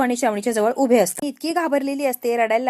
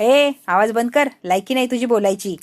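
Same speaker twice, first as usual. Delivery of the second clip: angry shout; 5 dB louder than usual. Acted. Minister silences Shobha harshly. (संतापून, हळू, मोठ्याने ओरडणे)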